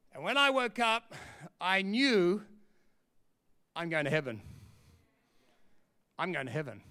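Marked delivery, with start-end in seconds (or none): 3.8-6.8 low, soft, wondering; hushed realisation. Retold or imitated. Preacher reliving waking up saved, hushed wonder. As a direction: let it sink in quietly, with long pauses.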